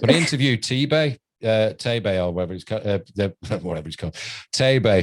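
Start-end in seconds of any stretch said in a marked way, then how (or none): 4.5-5.0 Tay-Bay, first part rhyming with "day"; pronounced TAY-bay. Shown as a demonstration. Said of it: "but it's pronounced".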